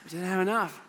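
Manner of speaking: soft repeat through a chuckle; amused repeat. Real, not acted. Pastor repeating the punchline to the crowd, chuckling. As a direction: echo it with a laugh. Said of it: "repeated with a laugh".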